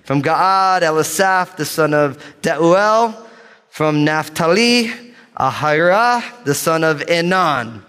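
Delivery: slow, stretched-out Hebrew names; deliberate, confident roll call; bold reading. Real, not acted. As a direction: press the last syllable of each name. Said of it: "gonna read these names with boldness".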